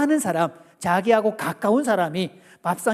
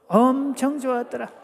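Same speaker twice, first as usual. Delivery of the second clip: higher-pitched, stretched Chungcheong chant; Chungcheong dialect; 4 semitones higher than usual. Shown as a demonstration. Preacher cues congregation in Chungcheong version, high Chungcheong chant. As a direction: lead the crowd in Chungcheong dialect. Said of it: "충청도 버전 갑니다".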